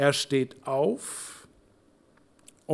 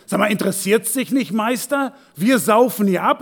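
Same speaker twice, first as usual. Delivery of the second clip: mock reproach, a bit louder and higher; grumbling complaint; 4 semitones higher, 3 dB louder than usual. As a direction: nag at the master like annoyed sailors. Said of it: "Die meckern ihn erstmal an".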